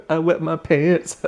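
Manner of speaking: high, slow mock wail through laughter; laughing mock confession. Cam repeating his confession, mock wail broken by laughter. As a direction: wail it theatrically while cracking up.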